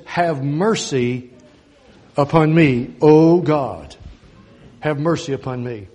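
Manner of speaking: slow, earnest plea for mercy; pleading prayer. Acted. Preacher voicing David's plea, slow and earnest. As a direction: beg God slowly for mercy.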